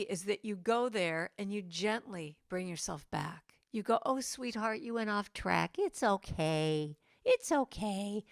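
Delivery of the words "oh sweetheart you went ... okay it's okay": gentle self-comfort. Shown as a demonstration. Gently bringing yourself back.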